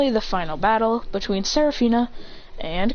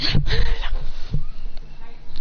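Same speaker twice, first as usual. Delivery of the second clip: high drawn-out clash cry; battle cry; 11 semitones higher than usual. Acted. Two fighters rush and clash fists, drawn-out battle cry. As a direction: voice the effort of colliding fists.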